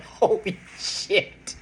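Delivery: slow, awed whisper; whispered holy shit. Retold or imitated. Reading the comparison specs online, whispering in awe. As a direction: breathe it out in shock.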